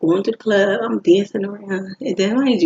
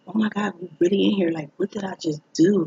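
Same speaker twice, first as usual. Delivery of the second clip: stunned disbelief. Retold or imitated. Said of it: "I'm like".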